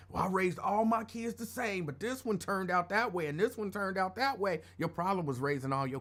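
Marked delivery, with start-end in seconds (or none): 0.1-4.6 lightly voiced complaining parent; imitated parent. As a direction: lightly mimic a parent making excuses. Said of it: "When I hear people say".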